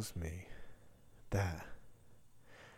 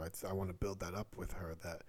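ordinary talk, nothing marked

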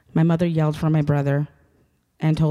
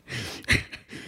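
soft breathy nervous giggle; nervous laugh; 7 dB quieter than usual. Real, not acted. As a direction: laugh off the nerves. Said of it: "I'm nervous".

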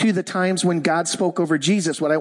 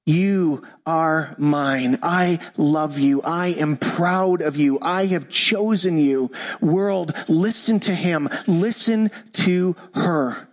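tender fatherly blessing; slower than usual. Shown as a demonstration. Dad speaking over his kids, slow and tender.

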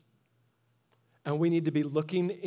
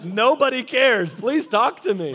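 louder, higher, laughing through it; 3 semitones higher, 8 dB louder than usual. Retold or imitated. Pastor laughingly begs the old man to keep talking. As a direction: laugh it out and plead playfully. Retelling chat with elderly man.

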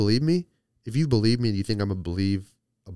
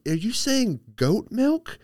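higher, slow, drawn-out disbelief; getting mad; 13 semitones higher, 3 dB louder, slower than usual. Retold or imitated. Girlfriend slowly questioning the goat milk, annoyed. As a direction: stretch it out, half mad. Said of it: "She was starting to get mad".

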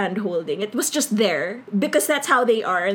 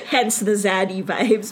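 laughing; 3 semitones lower than usual. Real, not acted. Laughing about zaddy dad.

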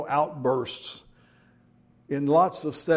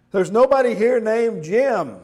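high, loud angry shout; angry yell; 7 semitones higher, 6 dB louder than usual. Acted. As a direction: yell it at the caller. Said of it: "he yelled".

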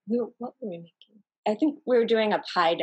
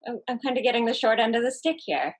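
disappointed; 5 semitones higher than usual. Retold or imitated. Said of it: "I was kind of disappointed".

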